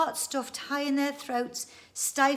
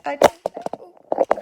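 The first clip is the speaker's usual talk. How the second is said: unsure; 7 semitones higher, 13 dB louder, much slower than usual. Real, not acted. Fiddling with a device.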